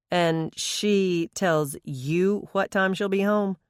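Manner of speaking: slow, pointed disbelief; incredulous. Acted. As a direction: drag it out in disbelief. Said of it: "He couldn't resist".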